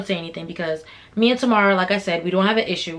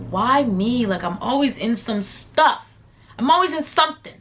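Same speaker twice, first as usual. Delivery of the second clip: exasperated complaint; 3 semitones higher than usual. Retold or imitated. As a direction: complain to yourself, stretching the words. Exasperated self-pity in retold thought.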